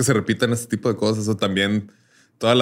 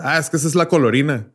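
vendor voice; 5 semitones higher than usual. Retold or imitated. Retelling the vendor's reply.

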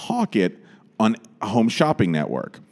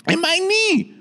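much higher dramatic diva; high theatrical lament; impression of a famous singer. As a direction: wail it like a star. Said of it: "She goes".

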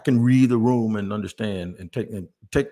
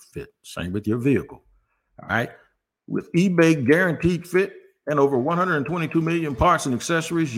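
ad read. Acted. Sponsored ad read in podcast.

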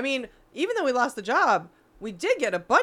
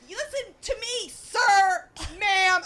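higher, louder mocking scold; mock neighbor scold; 11 semitones higher, 5 dB louder, much slower than usual. Retelling the neighbor's scolding, a mock voice. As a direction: scold with a fussy voice. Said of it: "She's like".

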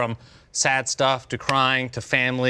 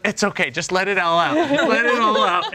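gushing comfort; 9 semitones higher, 4 dB louder than usual. Retold or imitated. Older woman comforting crying girl.

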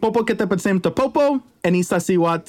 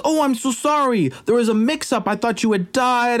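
higher, hammed-up apology; apologetic; 5 semitones higher than usual. King excusing himself to the returning warrior, mock apologetic. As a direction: plead a mix-up in a raised voice.

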